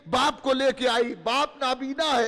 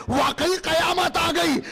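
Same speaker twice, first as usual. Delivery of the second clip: voice breaking; 3 semitones higher than usual. Acted. Blind father hears the Imam's voice.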